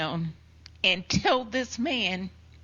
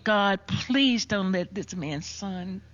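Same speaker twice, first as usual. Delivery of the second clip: prayer; slower than usual. Retold or imitated. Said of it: "I am praying".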